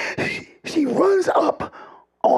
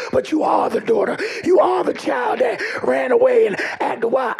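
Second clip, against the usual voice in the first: preaching. Acted. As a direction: build the congregation up, voice climbing. Preaching at full force.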